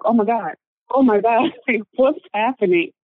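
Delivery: imitating a panicked bystander, with a laugh; retold freak-out. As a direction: act out a neighbor freaking out. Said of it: "And she's freaking out".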